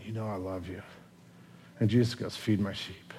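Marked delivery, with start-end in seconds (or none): 0.1-0.8 very soft, low, broken reply. Acted. Peter answering Jesus by the fire, quietly broken. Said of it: "imagine the brokenness of Peter going". 2.3-3.1 soft, low, hushed instruction; gentle command. Acted. Jesus answering Peter by the fire, gentle hush.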